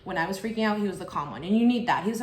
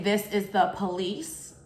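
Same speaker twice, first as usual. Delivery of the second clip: slow, sarcastic this is the police; mocking the caller; slower than usual. Mocking the fake caller's claim, slow and sarcastic. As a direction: drag it out to mock her. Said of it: "the fact that you're calling saying".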